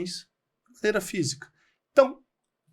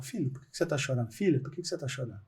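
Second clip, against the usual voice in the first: softer, quick, tender questioning; gentle parental concern; 3 semitones lower, 6 dB quieter, much faster than usual. Retold or imitated. Parent kneeling by a crying child, gentle imitation.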